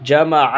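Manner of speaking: जमअ with the ayn clearly sounded from the throat; ayn pronounced. Shown as a demonstration. Teacher shows students how to sound the ayn in जमअ. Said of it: "ऐन निकाल के बोलेंगे".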